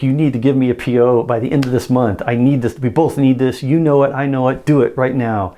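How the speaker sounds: firm, insistent push; blunt direct demand. Shown as a demonstration. Salesman pressing a client for the order, blunt demand. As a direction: lean on them, leave no room. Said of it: "that you just told them directly".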